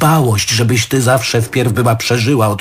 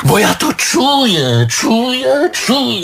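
insistent; 8 semitones higher, slower than usual. Acted. Jealous husband insists, voice climbing.

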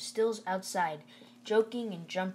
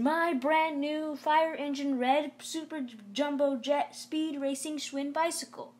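much higher, louder burst of joy; thrilled; 8 semitones higher, 3 dB louder than usual. A narrator's reading. Boy finds his new bike under the tarp, breathless excitement. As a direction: gush over the dream bike.

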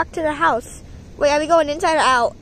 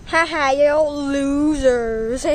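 mocking taunt; slower than usual. Winner taunting the others.

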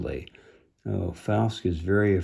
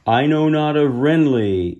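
a hint of a gravelly beast voice; understated gravelly creature; deep gravelly voice; 4 semitones higher, 4 dB louder than usual. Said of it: "it said in a deep, gravelly voice".

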